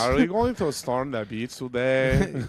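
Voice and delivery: put-on slow Hispanic-accented soldier; joining in with a drawn-out mock GI accent; American soldier impression. Soldier asking about storming the beach, mock Hispanic accent. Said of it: "I'm doing an American soldier right now".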